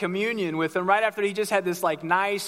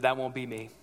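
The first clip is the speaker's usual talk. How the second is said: quieter, lower, dug-in no; stubborn refusal; 8 semitones lower, 6 dB quieter than usual. Retold or imitated. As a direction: refuse flatly under your breath.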